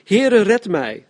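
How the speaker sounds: loud, high, drawn-out cry for rescue; roepend om redding. A narrator's reading. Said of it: "riep hij". (luid roepen om hulp)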